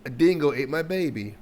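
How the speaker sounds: amateur attempt at an Australian accent; bad Australian accent. Reactor mimicking the Australian host, bad Australian accent. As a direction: try a lilting Australian accent, not very well. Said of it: "I'm not good at accents".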